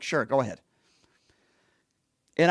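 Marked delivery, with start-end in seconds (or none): 0.0-0.6 imitating a whispered "sure, go ahead"; barely voiced, a whisper mimicking him; whispered reply. A man quotes Kennedy's whispered reply, whispering. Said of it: "he's like".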